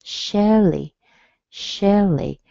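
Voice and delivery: "Shelley." with a high start and light e; teacher models "Shelley."; model pronunciation. Shown as a demonstration. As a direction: say "Shelley." with a falling tune. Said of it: "an L plus a little E".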